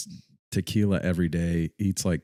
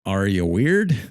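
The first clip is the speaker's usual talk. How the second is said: loud, high read-out question; punched question; 4 semitones higher, 7 dB louder, much slower than usual. Acted. Reads out the question they wrote, loud and punched. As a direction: ask it loud with a big pitch swoop.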